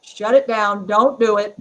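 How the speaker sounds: imitating a firm no; firm mock command. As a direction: put your foot down, playfully. Spells out husband's veiled refusal.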